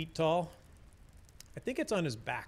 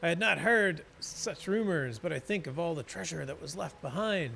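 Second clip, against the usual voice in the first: dwarf NPC voice; 3 semitones higher than usual. Acted. Reads dwarf NPC dialogue.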